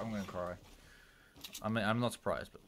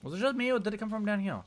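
excited; 12 semitones higher than usual. Real, not acted. Sudden fight in game.

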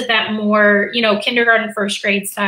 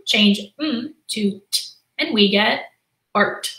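teacher demo, slow. Shown as a demonstration. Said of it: "I'm gonna say".

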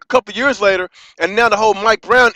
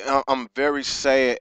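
real sadness; 8 semitones lower, 11 dB quieter than usual. Real, not acted. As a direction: let the sadness pull the voice down and soft. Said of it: "I'm just sad".

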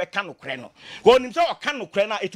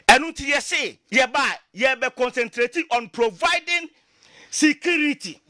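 rallying shout; 3 semitones higher, slower than usual. Real, not acted. Campaign promise climax.

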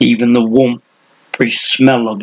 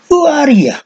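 put-on cranky old man; 4 dB louder than usual. A narrator's reading. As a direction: sneer it like a crazy old hermit.

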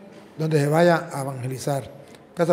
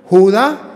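"Judá" with a drawn-out, stressed last syllable; "Judá" said slowly as ju-DÁ; stress on final A; 3 semitones higher, 9 dB louder than usual. Retold or imitated. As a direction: land firmly on the A of "Judá". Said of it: "tiene acento en la A".

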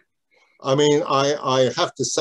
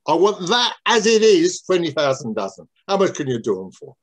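lightly acted Cockney trader, opening high; broad Cockney; 3 semitones higher than usual. Rough and ready trader ordering box games, broad Cockney. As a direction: demand it with a hint of Cockney. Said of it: "in a broad Cockney accent".

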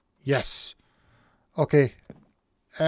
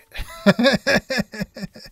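high delighted laughter; gleeful laugh; 8 semitones higher, 3 dB louder than usual. Real, not acted. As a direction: laugh out loud with joy at the speed. Delighted by flying speed.

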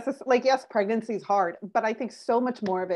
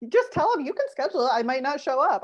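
quoted advice; 6 semitones higher than usual. Retold or imitated. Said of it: "I tell them".

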